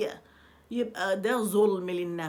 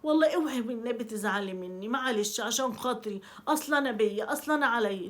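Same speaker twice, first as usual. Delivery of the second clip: over-apologizing. Retold or imitated. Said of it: "مش تقعدي بقى تبرري".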